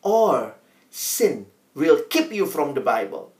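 quoted saying. Acted. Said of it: "Saya kutip kalimat D L Moody".

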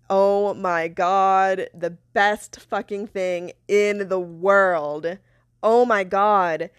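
slow, drawn-out delight, word by word; savoring relish. Real, not acted. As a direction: relish every word slowly. Savoring imagined revenge on former company.

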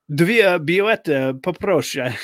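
Dwie bilety said very slowly, syllable by syllable; slow, careful phrase-book Polish. Retold or imitated. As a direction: spell out Dwie bilety, poproszę like reading from the book. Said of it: "I said it the way the phrase book says".

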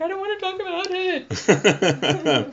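imitating adopted mother. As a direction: drag it out as the mother dodging. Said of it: "And she's like".

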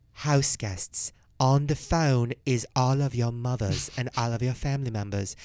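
loud, measured mock announcer voice; Big Brother announcer. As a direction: imitate a booming house announcement. Imitates Big Brother announcing to house guests.

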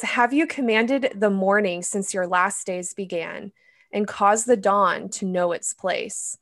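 measured, solemn Bible reading; scripture reading. Acted. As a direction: read it like scripture aloud. Reads Job 38 aloud.

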